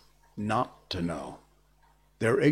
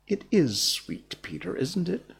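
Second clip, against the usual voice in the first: gratified; 7 semitones higher than usual. A narrator's reading. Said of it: "frightfully gratified".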